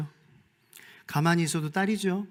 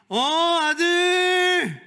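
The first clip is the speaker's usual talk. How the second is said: high, loud, drawn-out 아들; Father answering; 14 semitones higher, 7 dB louder, much slower than usual. Retold or imitated. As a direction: answer your son as a joyful father. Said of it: "아버지가".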